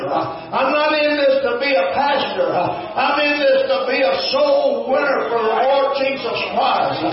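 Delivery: sung-out revival preaching, slow and fervent; preaching at full force. Acted. Preacher rousing his congregation, chanting and fervent. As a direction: lift the church with a chanting preacher's cry.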